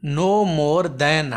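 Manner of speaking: drawn-out reading; teacher dictating slowly; slow dictation. Shown as a demonstration. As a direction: read the phrase slowly for the class. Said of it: "हाणे हिते असां वटि ॿियो sentence आहे".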